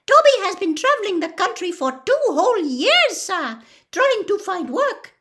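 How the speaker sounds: high, loud squeak of a house elf. A narrator's reading. Dobby telling Harry of his search, squeaky. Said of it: "Dobby squeaked".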